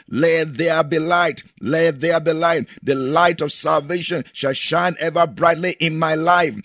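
rising bold declaration; preaching prayer at full force; declaring prayer. Acted. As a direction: command the light to shine.

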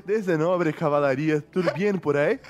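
put-on Portuguese with a light Spanish accent. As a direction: read it with a hint of Spanish accent. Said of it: "ler esse e-mail com sotaque espanhol".

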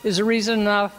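faint voice far from the mic; quiet speech under loud hiss. Real, not acted. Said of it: "not holding the mic very close".

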